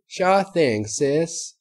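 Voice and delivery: put-on high eager little girl voice; excited filly. A narrator's reading. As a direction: bounce it out, all excited. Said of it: "the filly exclaimed".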